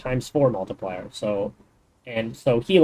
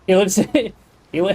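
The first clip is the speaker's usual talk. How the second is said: laughing; 7 semitones higher, 4 dB louder, faster than usual. Real, not acted. Laughing while telling joke.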